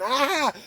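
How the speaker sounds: high-pitched cry of pain; acted high yelp; re-enacted yelp. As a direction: yelp as if being twisted round. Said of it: "So I'm spinning round, going".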